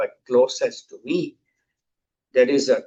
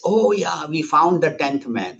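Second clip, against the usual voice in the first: higher-pitched, lightly acted discovery; acted happy realisation; 4 semitones higher than usual. Disciples learning nobody was lost, mildly acted relief. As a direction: play a touch of delighted relief.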